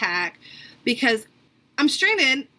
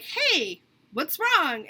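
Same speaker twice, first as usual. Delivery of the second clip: imitated gentle concern; 4 semitones higher, much slower than usual. Somebody to person holding it together, gentle concern. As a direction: coax gently, as to someone near tears. Imagined sympathetic person asks crier.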